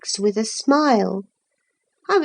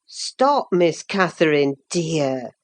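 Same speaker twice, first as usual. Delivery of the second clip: lower, gentle nursemaid voice; old nurse interrupting; 8 semitones lower, slower than usual. Acted. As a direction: cut her off kindly. Ellen interrupts the story.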